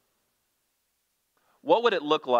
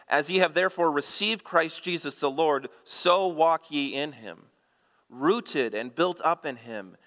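scripture reading; 3 semitones higher than usual. Acted. Preacher reading Colossians aloud to his congregation, solemn and raised. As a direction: proclaim the passage to the church.

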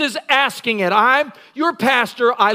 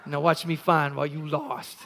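gleeful wife; 9 semitones lower, 9 dB quieter than usual. Retold or imitated. Wife gleeful finding lost things.

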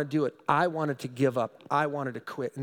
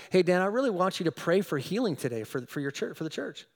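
gentle; 2 semitones higher than usual. Retold or imitated. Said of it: "his gentle voice".

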